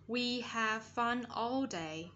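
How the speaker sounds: slow, spaced-out words; careful model reading. Shown as a demonstration. Teacher guides pupils through song lyrics, slow model reading. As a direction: read it slowly for learners to copy. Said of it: "hướng dẫn các bạn này đọc sao cho chuẩn âm".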